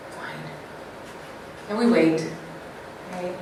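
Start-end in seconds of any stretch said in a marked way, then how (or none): 0.1-0.4 very low, very soft resigned fine; much softer, much lower resigned mutter; passive. Shown as a demonstration. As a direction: give up with a single word. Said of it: "And then there's passive".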